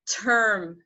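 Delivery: "term" with a puff of air on the T; aspirated T. Shown as a demonstration. Teacher showing how to move the paper, aspirated "term". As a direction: push air out at the start of "term". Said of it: "you are aspirating the sound".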